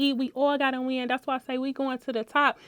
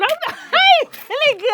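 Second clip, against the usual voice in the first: mock grumpy friend; 14 semitones higher, 6 dB louder, much faster than usual.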